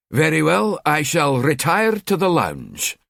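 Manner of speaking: sulky put-on posh accent. Husband sulking off to the lounge in a mock-posh accent. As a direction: put on a grand accent and sulk. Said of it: "He sulked in a put-on accent".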